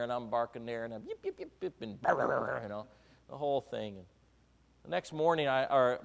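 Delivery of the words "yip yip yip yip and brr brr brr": mock yapping. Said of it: "I'm barking here".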